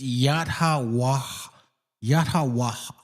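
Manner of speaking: "Yat Ha Waha" in measured, open syllables; teacher's careful "Yat Ha Waha"; correct reading. Shown as a demonstration. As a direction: sound out "Yat Ha Waha" with an airy last ha. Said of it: "the way it's supposed to be read".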